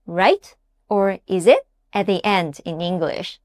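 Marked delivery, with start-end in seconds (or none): 0.1-0.6 "right" starting low and rising; question tag. Shown as a demonstration. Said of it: "It's like adding". 1.2-1.6 "is it?" starting low and rising sharply; question tag. Shown as a demonstration. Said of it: "It's like adding".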